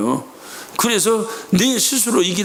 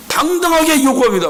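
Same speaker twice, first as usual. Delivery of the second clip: bold declaration, raised in pitch; confident demand; 4 semitones higher than usual. Shown as a demonstration. Believer claiming from God as a child, confident demand. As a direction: state the claim without apology. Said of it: "당당하게 요구합니다.라는 뜻입니다".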